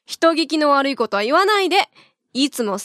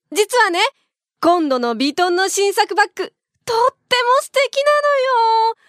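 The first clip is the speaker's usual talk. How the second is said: coaxing voice; 4 semitones higher than usual. Acted. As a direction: purr it to get the bag. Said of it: "なんだその猫なで声".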